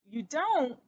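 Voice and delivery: mild wonder at the answer; Ced puzzled by his cousin, in mild wonder; questioning in wonder. Acted. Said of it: "Ced questioned in wonder".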